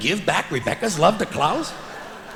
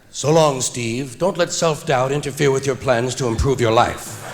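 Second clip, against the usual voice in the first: mock realistic goodbye; 4 semitones lower than usual. Shown as a demonstration. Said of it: "in a realistic manner".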